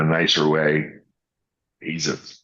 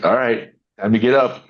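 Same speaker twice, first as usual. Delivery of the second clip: higher, lightly voiced kid asking up; mild pleading, pitched up; child's plea; 6 semitones higher than usual. Child under water to dad, lightly voiced plea.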